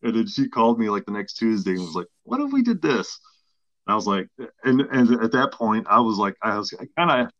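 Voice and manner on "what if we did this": much higher coaxing saleswoman voice; imitating the saleswoman. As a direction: sweet-talk him with a new offer. Saleswoman calls back with offer.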